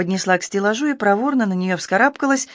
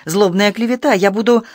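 angry; 4 semitones higher, 4 dB louder than usual. Acted. She keeps shouting at the judge.

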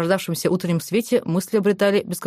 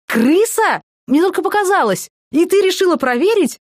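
alarmed; 11 semitones higher, 5 dB louder than usual. Acted. Maya panics about a rat.

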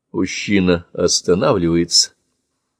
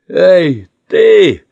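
much higher, louder, squeezed out; gasped call; 10 semitones higher, 8 dB louder than usual. Acted. Panting man calls to the boy, gasped shout. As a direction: force it out short of breath. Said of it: "выдавливает он, хватая ртом воздух".

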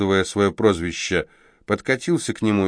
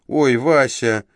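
capricious tone; 5 semitones higher than usual. Acted. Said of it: "проговорила девица капризным тоном".

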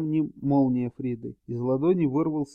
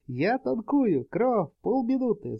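battle shout; 8 semitones higher, slower than usual. A narrator's reading. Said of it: "заорал Рейники".

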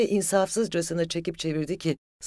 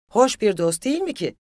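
loud, high, exasperated jeer; frenzied rhetorical question; beside himself; 8 semitones higher, 9 dB louder than usual. A narrator's reading. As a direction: fling the question out at a shout. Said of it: "Çileden çıkmıştı".

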